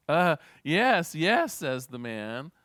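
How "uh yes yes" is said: high, loud, eager reply; acted urgency. Hanging man answers the voice overhead, urgently.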